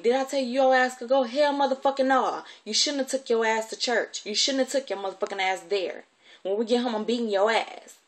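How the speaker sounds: high, loud angry rant; furious scolding. Retold or imitated. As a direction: imitate a guardian's threatening tirade. Acted guardian scolding and threatening.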